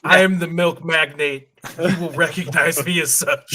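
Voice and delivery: lightly voiced grand milk magnate; pompous tycoon voice. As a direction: proclaim it like a self-important tycoon. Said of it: "hear you do that voice".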